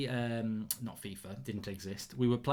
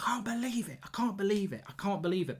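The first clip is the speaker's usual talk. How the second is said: disbelieving wail; 8 semitones higher than usual. Retold or imitated. After the draw, to a teammate: high anguished disbelief. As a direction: wail it like the final whistle just broke you. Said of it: "I was like".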